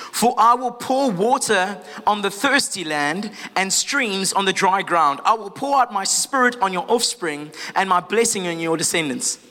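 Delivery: slow, measured Bible reading; scripture reading. Real, not acted. Preacher reading Isaiah to the church, measured scripture reading. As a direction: read the verse out deliberately, settling at the end.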